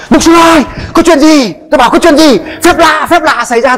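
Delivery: high, breathless excited news; mother rushing out to tell the pastor a miracle happened. Retold or imitated. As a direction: burst out with joy.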